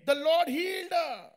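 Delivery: loud, drawn-out preaching; triumphant proclamation. Real, not acted. Preacher announcing healing to congregation, triumphant. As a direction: declare it slowly and forcefully.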